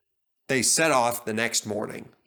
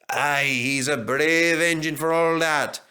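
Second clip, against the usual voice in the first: slow, admiring; 2 semitones higher, 4 dB louder than usual. Acted. Douglas admiring brave Stepney, slow. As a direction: sound impressed and fond. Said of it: "said Douglas admiringly".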